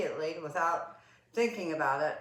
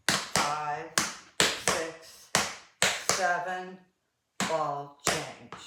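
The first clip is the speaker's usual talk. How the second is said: slowed-down counting, each word drawn out; walk through it in slow motion; 5 dB louder, much slower than usual. Shown as a demonstration. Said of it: "let me do it in slow motion".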